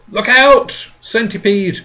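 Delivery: loud, high warning cry; alarmed shout. Acted. James shouting a warning to the centipede, alarmed. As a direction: yell a sudden warning. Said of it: "cried James".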